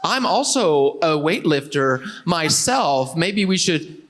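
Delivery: slow, awkward self-introduction; stilted approach. Retold or imitated. Student approaching crush at the gym, stilted and awkward. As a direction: ham up a clumsy come-on.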